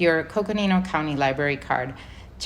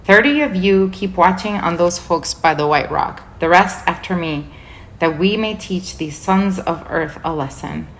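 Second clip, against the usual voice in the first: louder, barked captain's order; commanding cry; 5 dB louder than usual. Acted. Tarkan commanding his troops, a loud battlefield cry. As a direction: roar orders at his soldiers. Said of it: "Rishta Tarkan's voice cried out".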